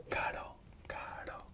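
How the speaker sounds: caro with one quick tap on the r, whispered; tapped single R. Shown as a demonstration. Teacher showing the soft R in caro, single tap. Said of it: "It's not r".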